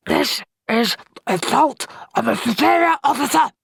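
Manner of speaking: screaming. Acted. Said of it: "screamed a muffled voice".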